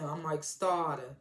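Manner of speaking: "Starter" stretched slowly, r dropped at the end; imitated drawl on "Starter", ending in "ah"; catchphrase imitation. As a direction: slowly draw out "Starter" as a self-introduction. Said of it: "he kept saying".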